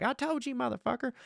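a soft, high hint of the wife; lightly voiced wife. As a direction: mimic the wife softly and high. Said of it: "my wife ... just like".

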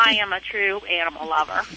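heard through a phone line; over the phone. Real, not acted. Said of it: "I'm talking to you on the phone".

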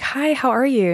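therapist greeting. Retold or imitated. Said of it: "she'll call and be like".

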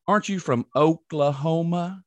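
lightly mimicked slow question; imitating lady's questioning. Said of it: "Like that".

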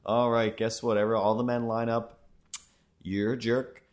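a hint of a brassy mom turning down every man; voicing his mom. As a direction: play his mother shooing the men off, loud and bright. Voicing the mother brushing off men.

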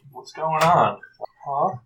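mildly hammed-up bewilderment; confused thug. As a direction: ask it like a baffled goon. Voices a puzzled enemy in game.

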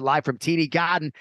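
big arena announcer call. Shown as a demonstration. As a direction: announce it like fight night. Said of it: "I'm gonna do most of the show in a Boston accent".

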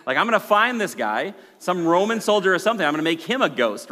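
angry Joseph. Retold or imitated. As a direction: threaten like a jilted groom. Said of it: "he's like".

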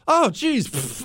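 puffed-out exasperation, retold; exasperated wife. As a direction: imitate the wife's bothered exclamation. Wife exclaims, bothered by a bug.

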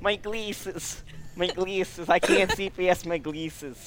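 put-on Jewish family voice; Jewish family impression. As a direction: kvetch like an old relative about glasses. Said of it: "This is everyone in my family".

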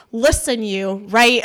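lightly put-on New York accent; retold New York tough talk; real New York. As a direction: go a bit New York on them. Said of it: "I got real New York".

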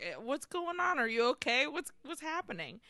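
confused. Retold or imitated. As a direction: imitate a bewildered boy, voice lifting. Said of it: "Rodrigo is so confused".

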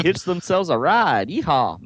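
a touch of Southern twang; Southern accent. Pretend. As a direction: lightly put on a Southern accent. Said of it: "That sounds very Southern".

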